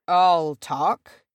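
mild growled retort, pushing ahead. A narrator's reading. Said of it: "growled Orla".

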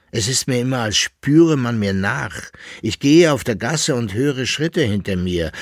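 a lightly voiced frightened patron; uneasy patron. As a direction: sound haunted by steps behind you. Barvitius tells of being followed.

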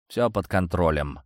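flat, unbothered reply; dry and curt. Acted. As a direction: brush it off coolly. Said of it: "сухо ответил я".

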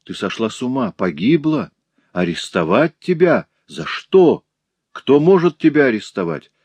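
incredulous questions climbing in pitch and force; shocked disbelief. Acted. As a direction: build to a loud, indignant demand. Father shocked at daughter's arrest. (потрясённо, с нарастающим возмущением)

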